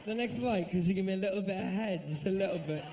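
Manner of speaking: put-on English accent, polite request. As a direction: imitate a fella trying out an English accent. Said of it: "Some of the fellas might try that".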